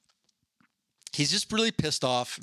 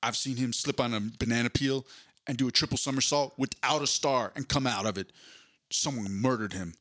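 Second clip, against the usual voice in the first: Vin Diesel. Retold or imitated. Host retells the plot, mock Vin Diesel voice. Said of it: "But he's like".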